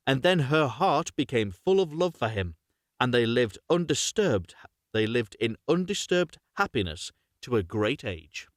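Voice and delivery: measured, clearly phrased fairy-tale reading; story narration. Acted. Reads a fairy tale aloud.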